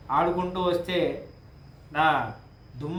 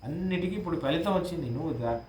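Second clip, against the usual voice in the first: coaxing Kaikeyi; 2 semitones higher than usual. Retold or imitated. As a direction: lift the pitch and urge him to rise. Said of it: "అని అంటుంది".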